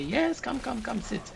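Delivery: Turkish bath attendant. Retold or imitated. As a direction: beckon them on yet again. Staff move them again.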